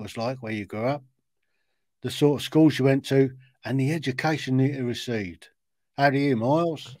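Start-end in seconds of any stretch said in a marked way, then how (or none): 6.0-7.0 put-on a host's amateur Australian accent; lightly put-on Aussie accent, friendly greeting; Australian accent attempt. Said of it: "That's my best was the accent".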